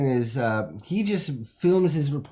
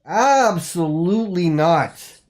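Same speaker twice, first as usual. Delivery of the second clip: slow, drawn-out firm refusal; flat refusal; 3 semitones higher, 6 dB louder, slower than usual. Acted. Host turns down Andy's Christmas date, slow and firm. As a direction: stretch out a scornful no.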